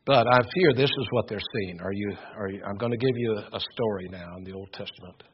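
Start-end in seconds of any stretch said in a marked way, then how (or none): none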